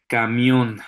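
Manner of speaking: "Camión" con la sílaba final marcada; última sílaba fuerte. Shown as a demonstration. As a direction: stress the last syllable of "Camión". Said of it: "que suenen fuerte en su pronunciación". ("Camión", acentuando fuerte la última sílaba)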